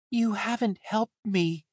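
high, slow, wounded accusation; angry and hurt. A narrator's reading. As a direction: accuse them, stung and drawn out, pitched high. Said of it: "his voice sounding both angry and hurt".

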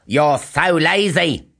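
a hint of a nagging mother, slow; mild scold, drawn out. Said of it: "said his mother, Lily".

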